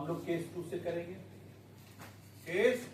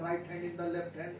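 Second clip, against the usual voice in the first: slow drill; 4 dB quieter, much slower than usual. Shown as a demonstration. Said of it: "teacher drills phrase".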